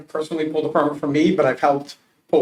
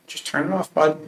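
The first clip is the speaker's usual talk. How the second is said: gentle coaxing; 2 semitones higher than usual. Retold or imitated. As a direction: ease the scared kid into it. Coaxing panicking son to shut valve.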